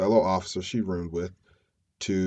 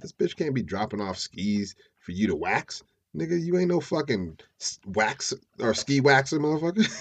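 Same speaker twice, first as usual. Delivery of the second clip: raised-pitch indignant griping; mock pissed off; 5 semitones higher than usual. Fiancee griping at John about waxing skis, mock annoyance. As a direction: imitate an annoyed partner objecting. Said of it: "Sherry was a little pissed off".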